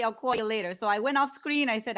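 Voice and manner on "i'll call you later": I'll call you later with a mild Yonkers New York accent, r dropped in later; warming up a light Yonkers accent on I'll call you later. Shown as a demonstration. Millie rehearses her Yonkers accent for the briefing. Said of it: "how I'm supposed to talk is I say".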